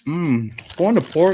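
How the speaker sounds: talking through a mouthful of cookie; words around a bite of food; mouth full. Real, not acted. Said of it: "talking my mouth full".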